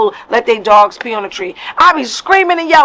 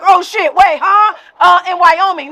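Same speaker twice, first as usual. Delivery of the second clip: high, rattled mock panic; caught-out faker; 5 semitones higher than usual. Fake New Yorker caught out, high rattled mock panic. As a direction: scramble for an answer, caught out. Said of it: "They be like".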